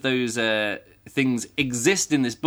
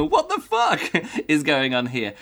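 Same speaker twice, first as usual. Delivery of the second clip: laughing; 3 semitones higher than usual. Retold or imitated. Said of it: "it very quickly goes on to".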